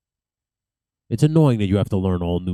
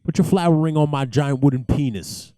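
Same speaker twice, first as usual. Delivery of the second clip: higher-pitched mock come-on; cocky flirt; 5 semitones higher than usual. Knight calling out to the princess, cocky flirting. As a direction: play a cocky jouster hitting on a lady.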